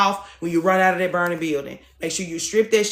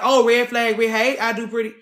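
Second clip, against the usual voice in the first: mock alarm; 4 semitones higher, 4 dB louder than usual. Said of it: "y'all like".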